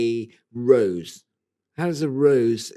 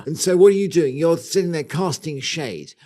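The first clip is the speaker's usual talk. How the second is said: hammed-up am-dram storytelling; theatrical. Host dramatically scene-sets plant roleplay, hammed-up. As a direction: set the scene like a stage actor. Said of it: "been to Amateur Dramatic Society".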